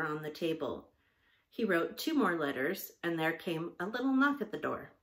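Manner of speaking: measured storybook reading; story narration. A narrator's reading. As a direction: read the story aloud in clear phrases. Reads a story aloud.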